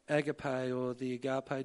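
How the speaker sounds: agape said once with stress on the first syllable, then on the second; agape, stress moved between takes; two stresses of agape. Shown as a demonstration. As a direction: try agape both ways, shifting the stress. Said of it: "the emphasis on the syllable".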